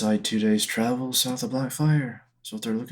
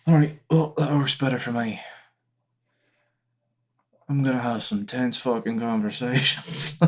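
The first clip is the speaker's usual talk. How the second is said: lightly voiced brusque game character; Otto, brusque and grumbling; 3 semitones higher than usual. Otto accepting the party's travel plan, mildly brusque.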